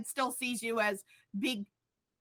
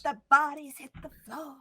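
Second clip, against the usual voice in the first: whispered; faster than usual. Pretend. Quoting song lyric in whisper.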